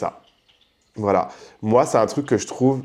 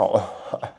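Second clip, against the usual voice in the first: laughing; 4 semitones lower, 8 dB quieter than usual. Real, not acted. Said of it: "J'ai hurlé de rire".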